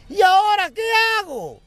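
high, loud panicked wife; panicked yell. Acted. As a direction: yell it while running away. Wife yelling while fleeing. (esposa gritando en pánico, muy aguda)

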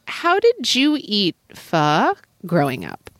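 slow question with pho carefully drawn out; careful practised pronunciation. Shown as a demonstration. Learner trying pho in a whole sentence, careful and slow. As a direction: set pho apart with a questioning tone. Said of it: "try putting it in a whole sentence".

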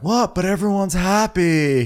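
high surprised exclamation; surprised quote. Retold or imitated. Shep surprised.

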